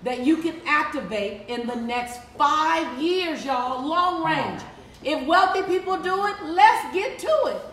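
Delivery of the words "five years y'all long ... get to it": high, loud rhyming punchline; excited punchline. Real, not acted. Coach rallying her audience with an excited loud punchline. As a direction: belt the rhyme out to the crowd.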